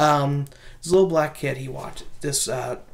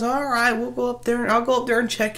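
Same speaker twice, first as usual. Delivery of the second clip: put-on babysitter voice; 5 semitones higher than usual. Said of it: "And she goes".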